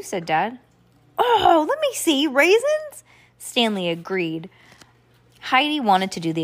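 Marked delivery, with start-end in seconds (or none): 1.2-3.0 very high exclamation; surprised. A narrator's reading. Reacting to Dad's raisin tip, surprised. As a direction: squeak it in surprise.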